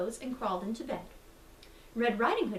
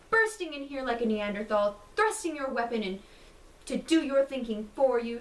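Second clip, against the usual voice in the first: louder, scolding outrage at the intruder; indignant exclamation; 4 dB louder than usual. Acted. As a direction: tell him off, offended. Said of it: "she exclaimed".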